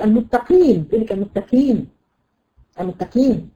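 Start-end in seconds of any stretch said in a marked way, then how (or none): 0.0-0.9 المتقين with a light k in place of q; qaf turned kaf. Shown as a demonstration. Teacher quoting a student's error, qaf thinned into kaf. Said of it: "تصبح كاف". 1.1-3.5 المتقين pronounced with a thin k sound; qaf turned kaf. Shown as a demonstration. Teacher repeating the beginners' mistake, qaf as kaf. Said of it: "تصبح كاف".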